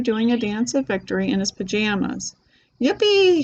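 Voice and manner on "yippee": high, whooping cry of joy; joyful yell. A narrator's reading. Old grandpa exploding with joy, high whooping yell. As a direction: let it burst out of him. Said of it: "he shouted".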